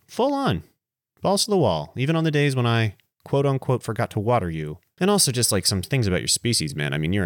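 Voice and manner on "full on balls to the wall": Full on squealed up much higher, stretched out; giddy high-pitched emphasis; emphatic repeat. Shown as a demonstration. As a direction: shout Full on in a sudden high burst.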